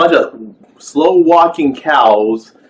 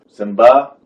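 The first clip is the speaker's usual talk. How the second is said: too calm; 2 semitones lower than usual. Retold or imitated. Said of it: "he sounds like he's too calm".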